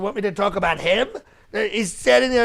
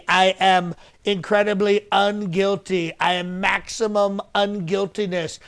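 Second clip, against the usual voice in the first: boastful denial. Shown as a demonstration. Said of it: "that's how you have to deliver it".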